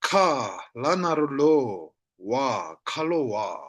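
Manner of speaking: syllables apart, then joined "kalo wa"; spelling out. Shown as a demonstration. Teacher shows third syllable, spelled then blended "kalo wa". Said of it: "Like this".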